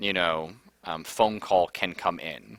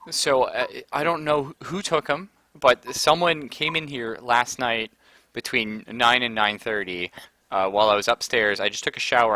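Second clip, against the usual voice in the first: louder, anxious mother in a rush; worried mother; 2 semitones higher, 5 dB louder than usual. Retold or imitated. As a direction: spill it out like a frantic mother. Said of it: "And she's like".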